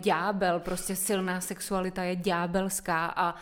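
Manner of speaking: mildly hammed-up moral condemnation; shocked objecting women. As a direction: lightly act out a scandalized good girl. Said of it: "tak spousta žen úplně".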